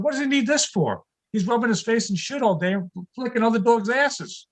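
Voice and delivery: high, incredulous rant; exasperated. Retold or imitated.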